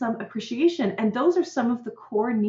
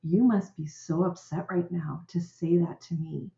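calm parent. Shown as a demonstration. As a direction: soothe the upset child gently. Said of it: "what I teach parents to do is say".

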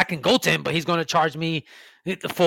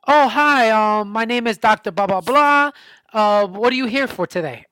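higher, louder mock-chirpy doctor greeting; mock cheery doctor; 5 semitones higher, 6 dB louder than usual. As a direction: ham up a clueless doctor's sing-song hello. Doctor voiced in a complaint story.

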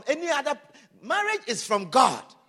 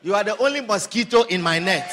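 mock sweet talk; 6 semitones lower, 4 dB louder than usual. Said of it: "And you think".

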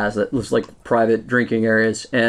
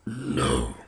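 deep, quiet flat no; gruff character voice; 11 semitones lower, 9 dB quieter than usual. Acted. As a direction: growl a short refusal. Character refuses again, very low.

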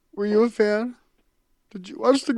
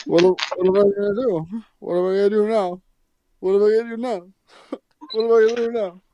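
hammed-up despair breaking into laughter, faster; mock despair; much faster than usual. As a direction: keep asking faster until you crack up.

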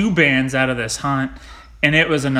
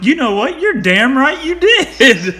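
high, gleeful comeback; retold triumphant about-face, pitched way up; emphatic agreement; 10 semitones higher, 5 dB louder, slower than usual. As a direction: seize on it loudly, drawing out the end. Retold sudden change of tune, claiming bird.

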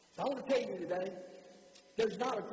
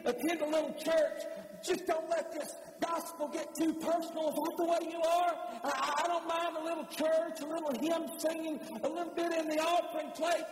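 higher-pitched, insistent preaching delivery; forceful preaching; 5 semitones higher than usual. Real, not acted. Preacher challenging the congregation about leaving unchanged, forceful preaching. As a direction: press the congregation hard in a raised pitch.

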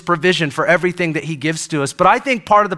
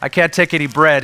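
a touch of mock dismay, echoing Jesus; dejected Peter; 3 semitones lower than usual. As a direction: echo it back as a crestfallen Peter. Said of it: "Here's Peter".

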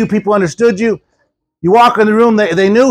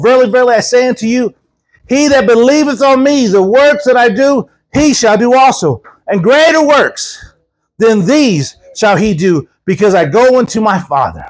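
scripture reading; 3 semitones higher than usual. Acted. Reads scripture aloud.

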